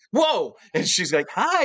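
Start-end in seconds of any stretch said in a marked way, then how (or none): 0.1-0.6 high, startled exclamation; retold startled amazement. Startled to find idol beside him. 1.3-1.6 very high-pitched little hello; imitated cheery greeting. Cartoonist greeting him, voiced high.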